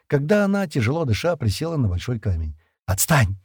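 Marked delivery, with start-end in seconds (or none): 2.8-3.4 low, curt brush-off; grumpy mutter. A narrator's reading. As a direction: grumble it dismissively. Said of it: "буркнула Джемма". (буркнуть недовольно)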